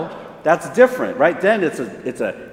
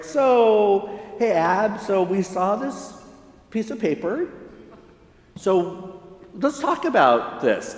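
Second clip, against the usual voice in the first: gentle probing parent; 4 semitones higher, slower than usual. Retold or imitated. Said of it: "I'm like".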